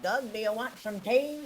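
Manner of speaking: high, loud, slow grandma voice; imitated grandma. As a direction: call out slowly like a confused grandma. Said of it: "'cause she's like".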